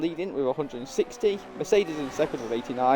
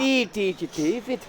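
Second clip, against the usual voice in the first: higher, hammed-up Scouse accent; bad Scouse accent; 7 semitones higher than usual. Co-host teases the driver's name in a bad Scouse accent. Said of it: "That's the worst Scouse accent ever".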